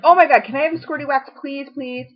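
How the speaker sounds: high, fast, excited pleading; retelling her eager plea in a seller's group; eager begging. Retold or imitated. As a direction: beg for it like a kid wanting candy. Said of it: "and I said".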